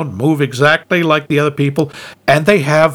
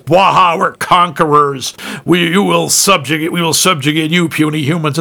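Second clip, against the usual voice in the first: giant alien booming voice. Retold or imitated. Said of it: "they don't think of themselves as".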